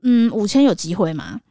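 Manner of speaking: slow, tentative ask; hopeful haggling. Retold or imitated. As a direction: test the waters gently. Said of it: "我就说".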